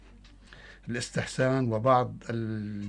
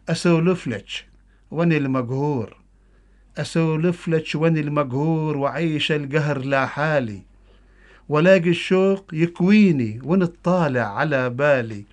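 loud, higher Bedouin dialect poem recitation; Bedouin Arabic accent; 4 semitones higher, 7 dB louder than usual. Acted. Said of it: "قصيدة باللهجة البدوية".

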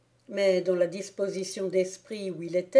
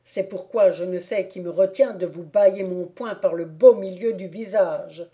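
louder, mild menace; threatening Thibault; 4 dB louder than usual. Acted. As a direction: warn him off.

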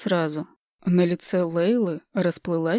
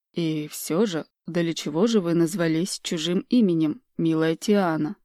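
gentle, smiling. Acted. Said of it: "Мягко улыбаясь".

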